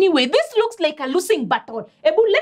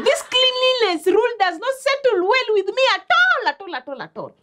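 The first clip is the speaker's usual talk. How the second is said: indignant complaint; 3 semitones higher than usual. Acted. Student complains to friends about cleaning rule, indignant.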